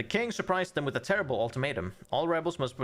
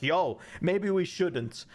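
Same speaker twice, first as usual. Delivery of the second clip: slow, higher mock-timid suggestion; timid general; 6 semitones higher, much slower than usual. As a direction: imitate a nervous general hedging. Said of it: "be like".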